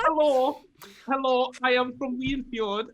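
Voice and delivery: teasing imitation of a Nordic accent; mock Swedish accent. Player mimicking a friend's greeting, mock Swedish accent. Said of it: "are we just all from Sweden?".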